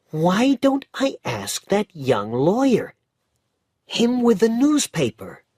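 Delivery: put-on high, loud, indignant street boy; lively bootblack boy, fired up against Minna; boy's voice, determined and cross; Dick's voice. A narrator's reading. Narrator voices Dick.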